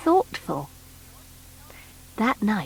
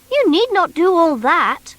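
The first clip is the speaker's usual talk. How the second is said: put-on high, bright little toy boy; Noddy's voice; 7 semitones higher, 3 dB louder than usual. Noddy asking the strange creature, high boyish voice. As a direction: pitch up as young Noddy.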